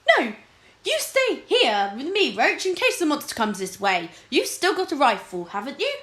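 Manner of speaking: a frightened king begging his captain to stay; frightened yelp. Acted. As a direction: beg him to stay, high and scared. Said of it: "King Fred yelped".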